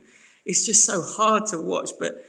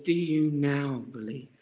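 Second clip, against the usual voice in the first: heartbroken question; 3 semitones lower, 5 dB quieter, slower than usual. Retold or imitated. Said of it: "heartbreaking question".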